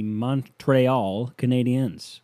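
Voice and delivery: smug French Canadian pronunciation of "Montreal Canadiens"; douchey French accent. Shown as a demonstration. Podcaster mocking Montreal fans, in a slow, smug French Canadian accent. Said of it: "I'm being douchey and saying it like that".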